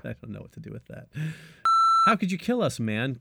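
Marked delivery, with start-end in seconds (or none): 2.1-3.2 a high, lightly spooky ghost line; ghostly Dale voice. Acted. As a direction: play a wistful ghost asking why, pitched up. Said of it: "Ghostly Dale says".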